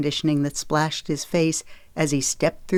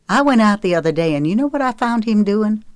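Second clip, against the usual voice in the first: higher, indignant rush of words; voice rising; 5 semitones higher, 4 dB louder than usual. A narrator's reading. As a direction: build into exasperated tattling. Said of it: "Her voice rose".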